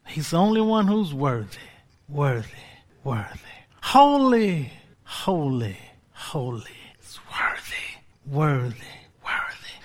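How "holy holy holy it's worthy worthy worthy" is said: fading worship. Real, not acted. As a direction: let the praise sink into hushed awe. Worship dropping to whisper.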